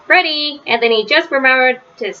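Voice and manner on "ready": a playful shout of ready, pitched up. Acted. Franklin calls out to Fox in hide and seek, shouting. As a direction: call it out to the hiding fox. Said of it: "Franklin shouted".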